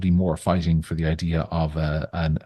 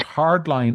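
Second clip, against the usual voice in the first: "hardline" pitched up and stressed for emphasis; 6 semitones higher than usual. Real, not acted. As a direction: lean on the word "hardline". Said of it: "stress the word hardline".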